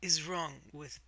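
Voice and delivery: slow, rising to a loud last word; slow, defensive, punching Bispor loud; defensive demand. Acted. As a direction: confront him, ending in a loud challenge. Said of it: "and say".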